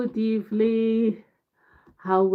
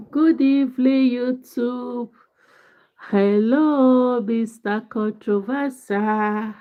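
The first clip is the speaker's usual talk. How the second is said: excited greeting; 4 semitones higher than usual. Real, not acted. Greeting arriving viewers loudly.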